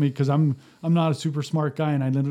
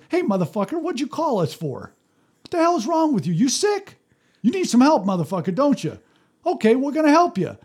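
tough street talk; 8 semitones higher than usual. Retold or imitated. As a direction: talk back to the man in his own rough language. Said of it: "Craig walks up to the guy and says".

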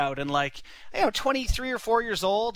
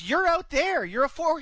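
higher, a half-hearted mock shout; mock call from the tee; 9 semitones higher than usual. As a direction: send the caddy out with a mild yell. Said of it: "He goes".

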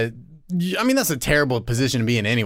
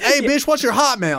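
catcalling guy; 9 semitones higher than usual. Retold or imitated.

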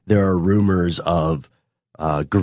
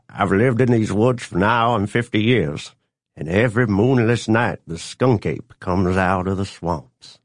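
put-on old man voice. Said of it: "old man Frederick saying".

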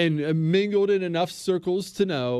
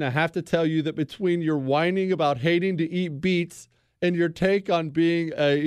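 normal talking voice

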